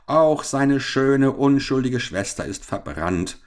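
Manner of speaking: high, drawn-out start, sinking; wailing cry. Acted. Captain reporting the sister's death, wailing. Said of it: "schrie Mister Lytton jammernd".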